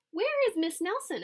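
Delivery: high, loud demanding question; anxious kids. A narrator's reading. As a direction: call it out worried. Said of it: "asked the kids".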